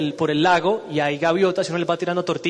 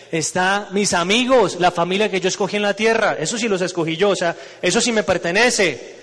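eager, mildly raised insistence; insistent protest; 3 semitones higher, 3 dB louder than usual. Acted. Man insisting to God that his friends are his, mildly excited insistence. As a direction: claim them as truly yours, lightly acted.

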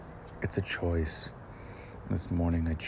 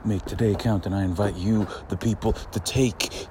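hype announcer; 4 dB louder than usual. Acted. Hyping up his viewers, big announcer voice. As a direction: boom it out like a showman. Hype intro as Ocho Diablo.

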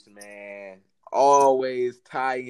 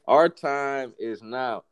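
slow booming declaration; 4 dB louder, much slower than usual. Acted. Mock rallying speech.

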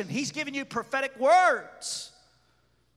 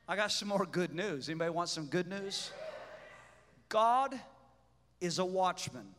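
low hushed sermon voice; quiet aside; 5 semitones lower, 6 dB quieter than usual. Acted. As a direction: lean in and say it softly. Quiet good news.

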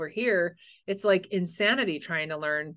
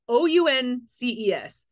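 spelled out slowly; 4 semitones higher, 4 dB louder, slower than usual. Retold or imitated. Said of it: "one of his things he was doing on his stand-up".

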